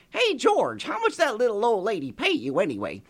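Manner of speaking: high, loud friendly call; eager friend shouting a question. Acted. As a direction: hail George brightly from across town. Friend calls out to George.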